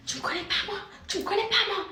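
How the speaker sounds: mock an offended stranger through a laugh; stunned indignant stranger. Vlogger imitating the woman who accosted her, high and laughing.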